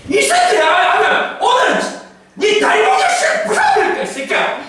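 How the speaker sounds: Gyeongsang dialect, high, slow, shouted threat; rough Gyeongsang dialect. Pretend. God threatening his people in rough Gyeongsang dialect. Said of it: "이런 말을 경상도식으로 해요".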